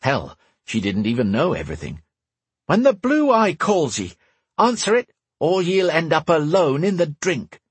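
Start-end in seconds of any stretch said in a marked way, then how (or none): 2.7-7.6 rally the crew like a pirate captain. Acted. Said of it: "her pirate voice".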